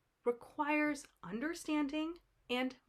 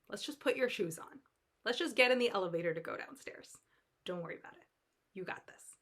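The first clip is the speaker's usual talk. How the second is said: reassuring pep talk. Acted. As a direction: soothe a panicking friend. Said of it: "I'd be like".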